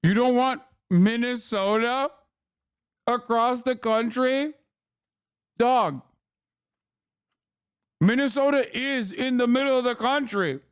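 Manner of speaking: incredulous. Real, not acted. Incredulous reaction to politician's claim.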